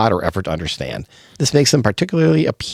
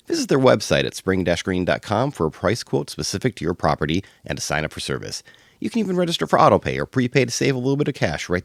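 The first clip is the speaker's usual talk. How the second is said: softer, measured testimonial read; sponsor ad read; 3 dB quieter than usual. Acted. Host telling listeners about the lawn care sponsor, scripted ad read. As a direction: read it as a friendly local sponsor spot.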